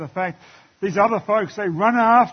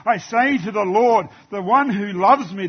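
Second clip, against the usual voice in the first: crying out to God; 3 semitones higher than usual. Retold or imitated. Preacher acting David crying out to the Lord, fervent. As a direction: raise the voice as if calling out to God. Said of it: "he cries out".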